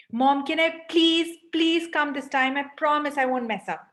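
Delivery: a hint of a kid wheedling for a yes; pleading child. Child begs mother to come along this time, mild pleading.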